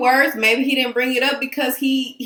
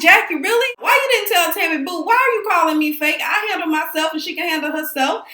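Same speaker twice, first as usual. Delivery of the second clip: indignant pushback; 5 semitones higher than usual. Retold or imitated. OG confronting Jackie over being called fake, indignant. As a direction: push back, wounded and incredulous. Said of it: "I'm like".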